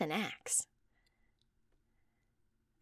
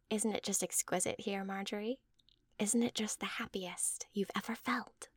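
lightly voiced mother in hushed, breathy wonder; rapturous mother; 3 semitones higher, 3 dB quieter than usual. Mother turning to Marjorie for agreement, softly rapturous. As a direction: coax agreement with a soft touch of rapture.

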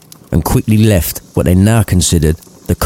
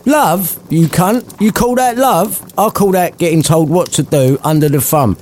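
higher mocking old miser; scornful Scrooge; 7 semitones higher than usual. Scrooge ridiculing Fred's love and dismissing him. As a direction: sneer at the very idea.

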